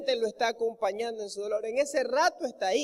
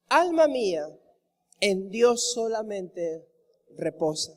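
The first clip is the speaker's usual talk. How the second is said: hushed meditative recital of a psalm; reverent reading; 3 semitones lower, slower than usual. Acted. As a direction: let the verse rest gently, slowly.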